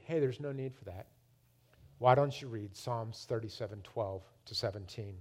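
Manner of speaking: low, soft and clear; retold calm voice of God. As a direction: gently quote God, unhurried. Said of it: "he said very clearly".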